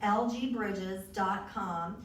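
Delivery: dictating the website slowly; slow and clear. Shown as a demonstration. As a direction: spell it out so they can write it down. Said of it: "my website is real easy".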